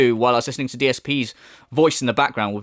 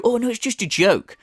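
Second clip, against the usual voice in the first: mock excuse; 6 semitones higher than usual. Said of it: "now you're gonna go".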